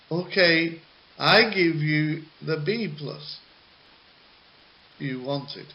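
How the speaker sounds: mild teacher giving in; lightly voiced teacher; a hint of the teacher conceding; teacher role. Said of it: "play both roles of the teacher".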